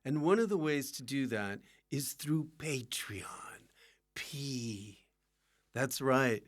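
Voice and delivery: measured host ad read; podcast support appeal. Acted. Host interrupts episode to ask listeners for support, ad read. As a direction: read a friendly plug straight to listeners.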